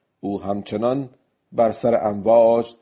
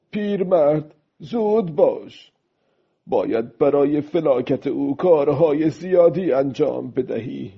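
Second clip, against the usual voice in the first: higher-pitched, lightly voiced old man talking to himself; old man urging himself; 5 semitones higher than usual. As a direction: gently spur yourself on, pitch lifted.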